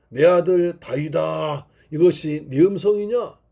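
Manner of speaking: a mock shout to David; calling out. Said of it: "그러나 소리칩니다". (산 너머로 부르는 약한 외침)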